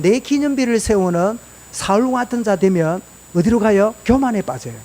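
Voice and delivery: usual speaking voice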